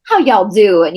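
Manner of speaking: genteel Southern American accent; nice Southern accent. Shown as a demonstration. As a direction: greet like a Scarlett O'Hara Southerner. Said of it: "Very nice Southern accent".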